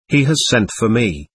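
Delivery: ordinary delivery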